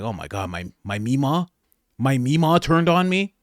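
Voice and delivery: mildly shocked imitation, rising into disbelief; mock shock. Tim reacting to his grandmother turning on him, mock shock. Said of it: "looking very shocked".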